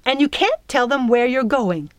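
high, insistent warning; snapped order. A narrator's reading. Fairy forbidding girl to tell others, snapping. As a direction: forbid it firmly. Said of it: "the fairy snapped".

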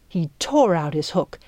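ordinary delivery

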